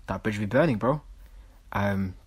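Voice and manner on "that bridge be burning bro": a lightly voiced show-off, half whispered; mock hushed brag about burning bridges; mocking poser voice. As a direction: play the self-styled loner, hushed and smug. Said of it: "I don't know why I'm speaking like this".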